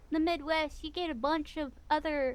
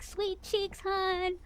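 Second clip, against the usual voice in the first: higher-pitched Southern endearment; Southern-Midwest accent; 4 semitones higher, much slower than usual. Shown as a demonstration. Guest demonstrating her pet names, high Southern twang. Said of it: "I always go like".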